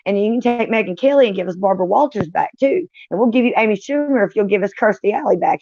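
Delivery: talking to God, begging for a trade. Retold or imitated. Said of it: "asking God, like".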